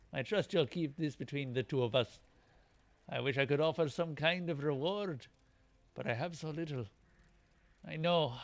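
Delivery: lightly voiced Scottish warrior, confiding; grateful game warrior with a Scottish lilt; Scottish accent. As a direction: grant the reward in a put-on Scottish brogue. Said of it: "these guys aren't Scottish".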